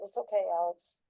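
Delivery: soft reassurance. Retold or imitated. Mother soothes apologizing son.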